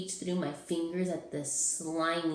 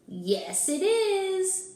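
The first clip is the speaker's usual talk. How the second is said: Ralph's high voice; 13 semitones higher, 6 dB louder, much slower than usual. Acted. Ralph replies.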